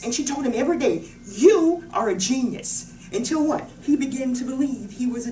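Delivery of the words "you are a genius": slow, loud "You are a genius"; emphatic encouragement. Retold or imitated. She told him every day, emphatic. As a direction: weigh each word of "You are a genius". Mother's daily affirmation.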